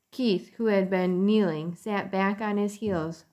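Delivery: gentle storybook narration; reading to children. A narrator's reading. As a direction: read it like a bedtime story. Reads a chapter aloud to children.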